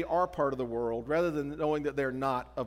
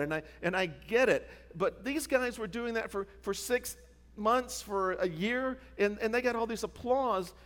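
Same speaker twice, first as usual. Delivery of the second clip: retold frustrated complaint; 2 semitones higher than usual. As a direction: voice a tired missionary airing his grievance. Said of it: "I'm angry. I'm frustrated".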